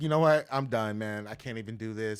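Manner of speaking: loud, fed-up retelling; exasperated outburst. Retold or imitated. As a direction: blow up and quit. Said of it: "I was like".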